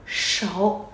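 "Sổ" with the tongue curled back; retroflex sh. Shown as a demonstration. Teacher explaining S H, "Sổ" said with curled tongue. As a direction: curl the tongue and let air flow on "Sổ". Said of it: "Trong miệng, cong lưỡi".

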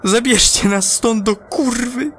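frantic astronaut shouting; desperate shout. Acted. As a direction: yell it at mission control. Repeats plea as a shout.

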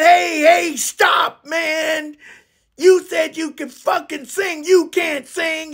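high-pitched irritated objection; annoyed protest. Retold or imitated. Acted quarrel, halting the bad singer.

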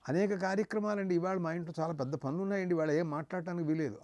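quick, brushed-off excuse of a busy man; busy householder. Retold or imitated. The preacher mimics a worldly man refusing to hear teaching, hurried and dismissive. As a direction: rattle off the excuses fast and dismissively.

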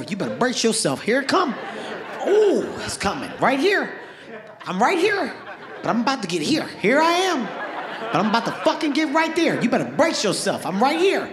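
teasing, laughing buildup; gleeful taunt. Retold or imitated. Boxer taunts his sparring partner before the jab. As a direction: wind him up before the punch.

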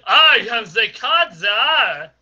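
slow booming proclamation. Acted. Booming card czar announcement.

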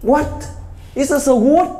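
high, slow, exaggerated broken English; hammed-up high voice telling a legend in English; mock tour guide. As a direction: put on a high-pitched comic guide voice, stretching the words. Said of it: "Thì nó bảo".

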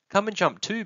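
high, playful invitation; excited child's pitch; eager little one. Acted. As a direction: urge a parent to join the game. Little one begs parent to play.

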